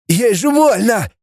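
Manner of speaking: high, desperate yell. A narrator's reading. Grigoryan yells at the sight of the flayed woman, high and desperate. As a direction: cry out in panic for the suffering woman. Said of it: "орал Григорян".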